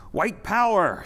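marchers' scream. A narrator's reading. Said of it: "screamed the marchers".

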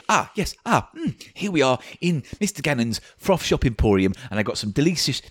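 lightly hammed sinister sweet-shop owner; creepy shopkeeper voice. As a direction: tempt the customer with oily relish. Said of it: "Mister Tim does a different character".

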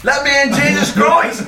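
high, loud Irish yelling; Irish accent. Pretend. Irish detective at the locked door, yelling in Irish accent. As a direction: demand entry in an exasperated Irish shout. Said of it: "do an Irish accent".

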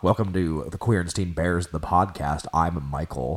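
deep macho country twang. Shown as a demonstration. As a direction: keep it low and butch. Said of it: "when you lowered your voice".

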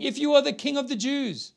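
a touch of mockery; lightly taunting, rising on the king; mocking soldiers read. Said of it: "The soldiers mocked him".

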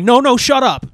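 loud, pushy shut up; mock shushing. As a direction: bark it down playfully. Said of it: "Instead of me being like".

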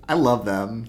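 a hint of Dracula, savouring the line; lightly voiced count, relishing it; mock-grand vampire line; Dracula delivery. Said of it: "the way he delivers it, he's like".

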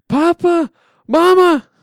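high, loud desperate scream; screaming for parents. Acted. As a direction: cry out for mother and father. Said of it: "I begin to scream".

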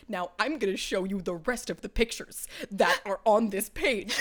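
lightly voiced mother, dissolving into laughter; a hint of a prim mother, cracking up; imitating mom. Mom showing her daughter the pictures, mock-prim then laughing. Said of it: "my mother's like".

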